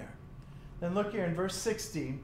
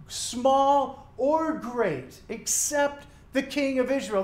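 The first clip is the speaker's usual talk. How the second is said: commanding king; 5 semitones higher, 3 dB louder, slower than usual. Acted. Enemy king orders commanders.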